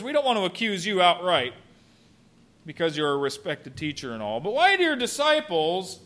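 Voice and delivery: feigned innocent insinuation; nonchalant. Acted. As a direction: tiptoe round the accusation. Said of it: "very nonchalantly said".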